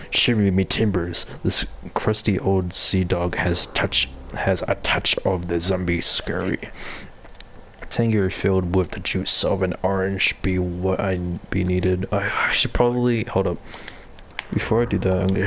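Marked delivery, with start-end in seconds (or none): 0.1-12.1 lightly voiced old sea dog pirate. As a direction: read it like a hint of a pirate. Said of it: "I need to do a pirate voice".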